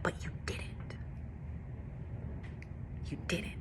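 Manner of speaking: hushed, gentle whisper; quiet whispered reassurance; soft whisper. Retold or imitated. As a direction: whisper it like a loving reminder. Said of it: "the Lord said".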